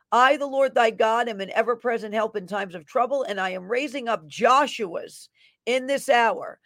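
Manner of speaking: fervent prophetic declaration; prophetic proclamation. Acted. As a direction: proclaim it like a prophet over the crowd. Reads a prophetic word.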